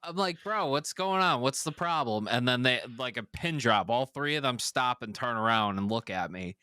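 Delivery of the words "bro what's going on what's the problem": retold confrontation. Confronting the man in the lot.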